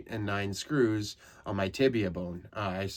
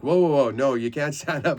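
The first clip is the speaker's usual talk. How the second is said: higher, louder urgent warning; alarmed shout; 5 semitones higher, 8 dB louder than usual. Retold or imitated. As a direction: stop him before he stands. Staff stopping patient standing.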